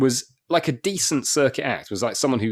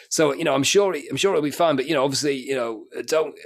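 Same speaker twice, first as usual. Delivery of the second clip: grudging compere; 4 semitones higher than usual. Retold or imitated. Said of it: "was like".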